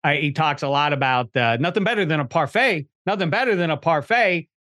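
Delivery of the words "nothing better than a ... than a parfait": lightly voiced movie donkey, quoting a catchphrase; a hint of a talking-donkey impression; Donkey from Shrek. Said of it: "Eddie Murphy's donkey says".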